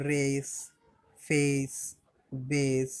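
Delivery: রেস, ফেস, বেস each with an "ey" glide; A pronounced "ey". Shown as a demonstration. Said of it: "এই হয়". (রেস, ফেস, বেস-এ A-এর উচ্চারণ "এই")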